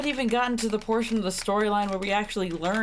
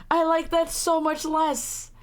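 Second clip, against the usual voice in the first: high, slow grossed-out protest; pitched-up appalled complaint; slow disgust; 7 semitones higher than usual. Real, not acted. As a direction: drag it out, appalled. Reacting in disgust to the game.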